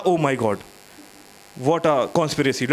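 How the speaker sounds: drawn-out, slow mock English teacher; mimicking the English teacher's dramatic gasp. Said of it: "तो ma'am ने कहा".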